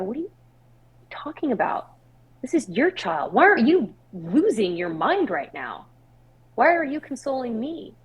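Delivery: acted-out bewildered protest, pitch swooping up; baffled, swooping mock outburst; retold incredulity. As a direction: question her in disbelief, voice leaping high. Acted disbelief at consoling sister.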